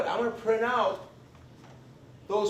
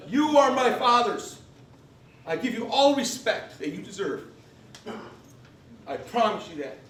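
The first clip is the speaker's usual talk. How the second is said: emotional. Real, not acted. Speaker honors older veterans as his fathers, emotional. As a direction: vow it with real emotion, easing down at the end. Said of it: "I get a little emotional".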